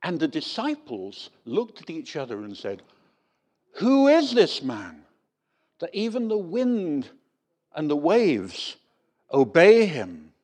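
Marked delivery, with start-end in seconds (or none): 3.7-10.3 awed wonder. Retold or imitated. Awed disciples after calm storm.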